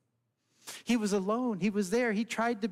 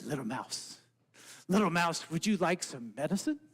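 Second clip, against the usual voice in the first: frog voice; 4 semitones lower than usual. Acted. Frog offers medicine.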